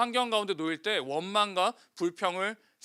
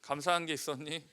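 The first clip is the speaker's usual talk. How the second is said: softly asking a neighbor; 5 semitones lower, 7 dB quieter than usual. Shown as a demonstration. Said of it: "물어봐요".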